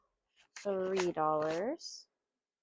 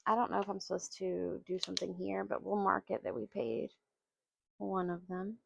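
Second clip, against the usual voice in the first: gravelly voice; 5 dB quieter than usual. Real, not acted. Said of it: "My voice sounds a little gravelly".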